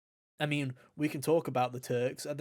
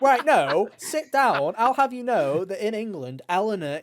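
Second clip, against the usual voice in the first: mock scolding; 5 semitones higher, 7 dB louder than usual. Real, not acted.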